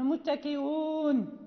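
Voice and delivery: slow "متكئون" with a catch before "uun"; fully sounded hamza. Shown as a demonstration. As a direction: draw out "متكئون" without sliding over its hamza. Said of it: "أن تحقق الهمزة".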